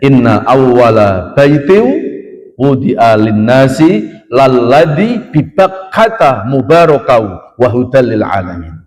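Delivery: slow, measured Quranic recitation. Shown as a demonstration. Preacher reciting a Quran verse to the congregation, slow and intoned. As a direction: intone the verse slowly and reverently.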